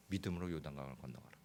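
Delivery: 믿음으로 요단강을 건너가라 breathed as a whisper. Shown as a demonstration. God speaks softly in the pastor's heart, whispered. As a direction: let God's command come as a whisper.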